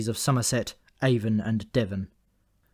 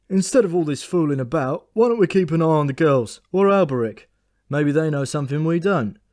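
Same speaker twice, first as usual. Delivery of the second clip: higher, louder put-on voice, a tired bird proposing a plan; grumpy old bird thinking aloud; weary raven Memory; 4 semitones higher, 6 dB louder than usual. Memory suggesting to Thought they split up, in a higher, louder raven voice.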